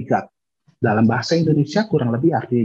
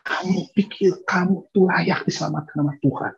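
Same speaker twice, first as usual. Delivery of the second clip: fiery preacher; 8 semitones higher than usual. Retold or imitated. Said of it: "Jonathan Edwards bilang begini".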